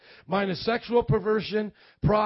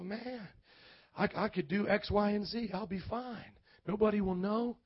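inner tempting voice; 6 dB quieter than usual. Retold or imitated. Voicing one's own tempting thoughts.

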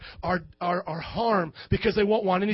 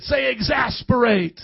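slow, fed-up call to say it; exasperated; 4 dB louder, slower than usual. Shown as a demonstration. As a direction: sound worn out and fed up. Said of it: "You gotta say it like you're exasperated".

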